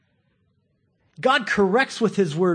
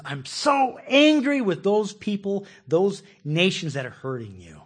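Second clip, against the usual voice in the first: mock divine anger; 2 semitones higher, slower than usual. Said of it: "he says".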